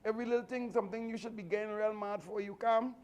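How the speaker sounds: amazed onlooker asking how you stay so calm; imitating puzzled people. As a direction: ask it like a baffled bystander. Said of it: "When people say".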